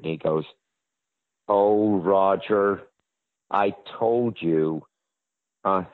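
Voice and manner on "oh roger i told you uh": slow, lightly voiced agent; drawn-out, patient reproach; imitating Stark Hasseltine. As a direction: agent on the phone, gently putting him in his place. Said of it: "This is how he talked".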